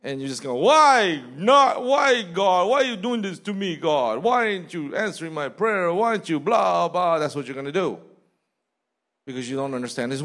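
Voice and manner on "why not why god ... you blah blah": whiny pouting complaint at God, higher and louder; mock tantrum. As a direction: mimic a sulking believer whining at God. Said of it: "throw a tantrum, you're gonna pout".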